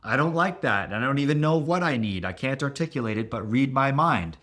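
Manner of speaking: mock tantrum of an inner child; childlike crying out. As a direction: whine like a needy child. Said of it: "crying out and going".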